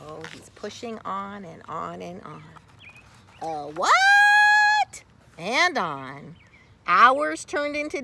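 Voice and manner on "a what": much higher, loud startled question; surprised. Real, not acted. Reader reacting to the story, startled and high. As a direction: shoot up in disbelief.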